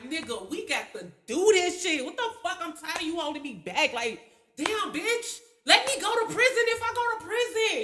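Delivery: angry inner voice. Retold or imitated. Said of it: "And the other me like".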